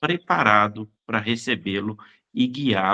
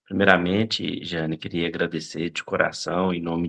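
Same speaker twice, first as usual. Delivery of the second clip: numb from the dentist; 4 semitones lower than usual. Real, not acted. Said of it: "tô com um pouco anestesiado ainda".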